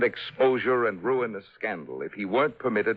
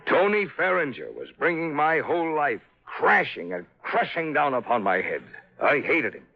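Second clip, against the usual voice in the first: bitter fury; 5 semitones higher than usual. Acted. Father's hatred of son-in-law.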